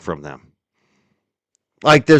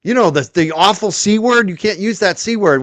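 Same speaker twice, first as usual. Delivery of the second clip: mocking Will; 5 semitones higher than usual.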